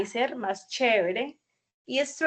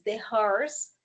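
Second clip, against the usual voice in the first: slow model sentence; slower than usual. Shown as a demonstration.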